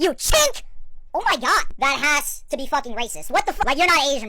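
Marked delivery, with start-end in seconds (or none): 0.0-0.6 very harsh, aggressive voice, pitched up. Acting out how another man says it to the speaker: mock-aggressive, harsh. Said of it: "it's just way too aggressive. Like, this is how he says it".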